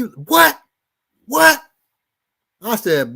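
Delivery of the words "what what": high, rising startled what. Retold or imitated. Boyfriend shocked by the threat, high rising what. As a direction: play the man caught off guard.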